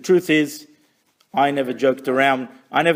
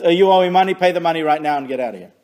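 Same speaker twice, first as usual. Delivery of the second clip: lightly voiced curt judge, louder and fast; brusque judge; 6 dB louder, faster than usual. Rabbi voicing a hasty judge ending a case, curtly. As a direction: bark the ruling and move on.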